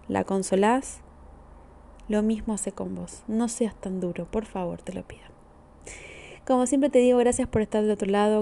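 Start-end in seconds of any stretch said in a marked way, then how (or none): 3.3-5.2 soft plea. Real, not acted. Therapist pleading with listener gently.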